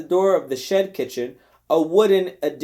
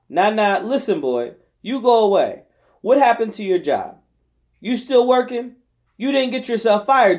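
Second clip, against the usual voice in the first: scolding; 5 semitones higher, 3 dB louder than usual. Acted. Della scolding Nignag.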